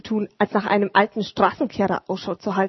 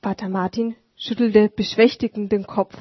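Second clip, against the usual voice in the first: plain reading voice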